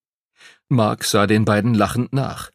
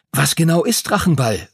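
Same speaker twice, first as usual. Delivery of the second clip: quick question; 6 semitones higher than usual. A narrator's reading. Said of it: "fragte Henry schnell".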